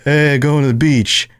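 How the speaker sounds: put-on botched California accent, drawn out slowly; badly faked Californian, stretching the words; off-target attempt at a California accent. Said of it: "That's not the right accent".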